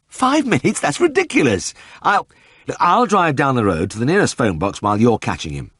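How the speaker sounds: very high, shrill disbelief; can't believe his ears; incredulous. A narrator's reading. Vet scoffing at Ted's five minutes, very high and incredulous.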